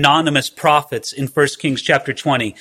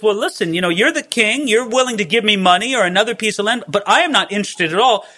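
Naboth's refusal; 4 semitones higher than usual. Retold or imitated. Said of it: "that's why Naboth says".

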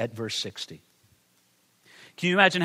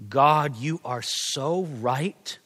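humble prayer; much slower than usual. Acted. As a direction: pray it, broken and honest. Imagined prayer of confession.

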